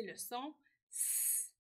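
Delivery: "S" said as a long hissed sss; held S sound. Shown as a demonstration. Teacher introduces the sound, "S" as a long hiss. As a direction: stretch "S" into a pure sss, without the letter name. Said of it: "le son S est un son".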